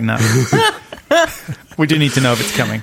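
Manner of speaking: cracks up mid-line; laughing while speaking. Retold or imitated. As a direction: laugh through the words. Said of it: "and I was like".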